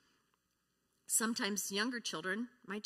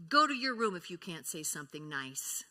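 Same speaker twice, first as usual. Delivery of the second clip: stern parent; 6 dB louder than usual. Shown as a demonstration. Modelling a harsh parent reply.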